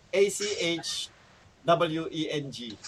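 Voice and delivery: letters spelled slowly one by one. Shown as a demonstration. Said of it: "hindi, Atchweng". (dahan-dahang binabaybay bawat letra)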